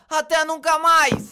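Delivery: hammed-up sob and shout; mock crying. Friends at the lava, hammed-up crying farewell. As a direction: wail a mock tearful goodbye.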